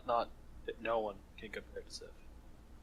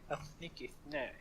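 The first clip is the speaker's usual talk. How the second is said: drawn-out s like a snake; 2 semitones higher, 8 dB quieter than usual. Shown as a demonstration. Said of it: "Sounds like a snake".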